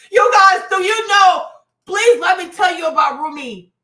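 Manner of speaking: loud, urgent excitement; excited shouting. Real, not acted. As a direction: burst out loudly, dying to tell everyone. Bursting to tell viewers about child.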